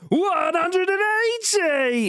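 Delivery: high, slow, drawn-out darts call; darts announcer. Retold or imitated. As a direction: stretch it out like a darts caller. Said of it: "So if he goes".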